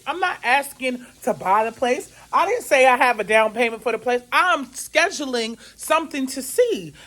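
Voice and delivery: indignant retort. Retold or imitated. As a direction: argue back over the phone, affronted. Acted phone quarrel over credit remark.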